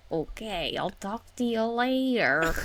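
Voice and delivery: lightly voiced old lady, drawn-out goodbye; a hint of old lady, stretching out the last words. Aunt saying goodbye, lightly imitated old lady. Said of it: "like an old lady".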